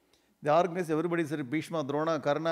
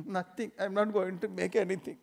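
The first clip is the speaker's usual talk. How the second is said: sulky reply; 3 semitones higher, 3 dB quieter than usual. Acted. Wife sulking after crying.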